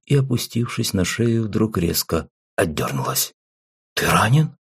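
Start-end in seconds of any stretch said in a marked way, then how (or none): 3.9-4.6 anxious. Acted. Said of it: "с тревогой вымолвила".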